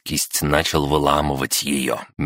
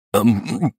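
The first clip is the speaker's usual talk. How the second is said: nervous gulp; 7 semitones higher than usual. Acted. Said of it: "сглотнул он".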